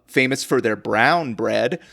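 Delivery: slow phrase with "brown" stretched and emphasised; stress on BROWN. Real, not acted. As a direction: linger on "brown", drawing it out slowly. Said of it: "put the emphasis on brown".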